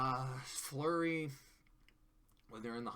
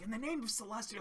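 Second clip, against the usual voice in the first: mock exclamation; 9 semitones higher, faster than usual. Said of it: "she's kinda like".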